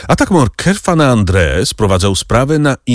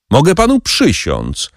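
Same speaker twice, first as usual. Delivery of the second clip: higher-pitched earnest cry of an oath; sincere exclamation; 9 semitones higher than usual. A narrator's reading. Banker pleads his honesty to furious Albert, earnestly. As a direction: swear it, meaning every word. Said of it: "zawołał Donglar ze szczerością".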